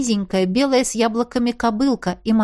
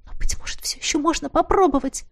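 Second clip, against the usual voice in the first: hushed whisper; 6 semitones higher than usual. A narrator's reading. Desperate private resolve.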